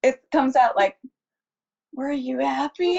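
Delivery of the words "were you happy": slow, quivering half sob; half crying. Retold or imitated. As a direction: let the chin quiver as you ask. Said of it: "do it 'cause it's in a half crying voice".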